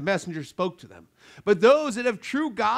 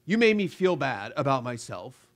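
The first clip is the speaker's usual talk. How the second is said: offended complaint; 4 semitones lower than usual. Pretend. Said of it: "hard-hearted in sin will often say".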